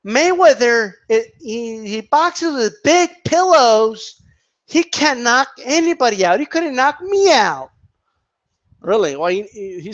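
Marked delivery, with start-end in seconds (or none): 0.1-7.7 mock Skip Bayless. Quoting the pundit to ridicule him, mock voice. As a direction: parody a blowhard TV pundit. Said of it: "let's quote him".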